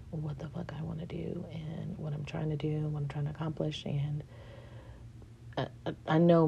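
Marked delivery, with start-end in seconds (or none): 0.1-3.8 whisper. Real, not acted. Venting about work to camera.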